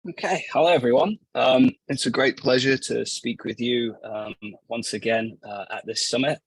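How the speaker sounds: hoarse from a cold; raspy voice. Real, not acted. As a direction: speak through a rough, sick throat. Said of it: "excuse my raspy voice".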